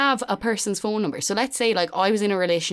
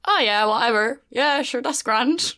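lightly voiced laid-back boyfriend; breezy, higher-pitched easygoing shrug of a voice; Paddy; 4 semitones higher than usual. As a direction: toss it off as a hint of someone horizontal. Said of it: "is that the best Paddy impression you can do".

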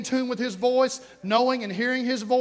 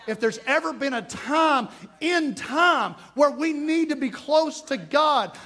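slow climbing preacher's shout; preaching shout; 4 semitones higher than usual. Real, not acted. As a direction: raise it into a preached cry. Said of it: "repeated with force".

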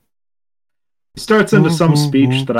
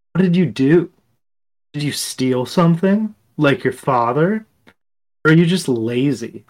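lightly voiced mother questioning her child; reproachful mother's tone. Mother to fired child about losing the job, mildly reproachful. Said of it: "I'll hear that tone in her voice".

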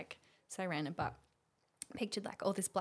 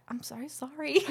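apology said through a laugh; 5 semitones higher, 4 dB louder than usual. Retold or imitated. Apologizing to the therapist, with a giggle. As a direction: say sorry while giggling.

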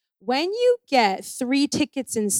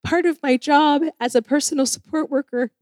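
a lightly voiced, higher, overly polite plea, yes and ma'am buttering up; laying it on thick; 3 semitones higher than usual. Pleading to the ministry woman, mildly laying it on thick. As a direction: sweet-talk the official a little. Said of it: "and I was laying it on thick".

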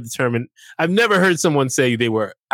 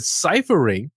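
rising disbelief on ciphering; incredulous retort; 6 semitones higher, slower than usual. Retold or imitated. Telling the guy off, incredulous. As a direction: push back in mock disbelief. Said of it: "I, I said".

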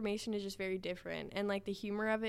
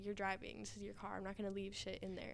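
whispering; 11 dB quieter than usual. Retold or imitated. Quoting herself to careless friend.

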